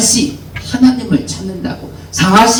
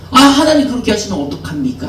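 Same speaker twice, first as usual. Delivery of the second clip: whining complaint; 3 semitones higher, faster than usual. Acted. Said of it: "투정을, 예, 부리는 겁니다".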